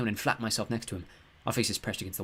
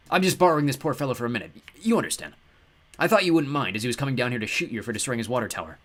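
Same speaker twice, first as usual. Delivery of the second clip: cheerful god voice; 3 dB louder than usual. Acted. Ptah speaks.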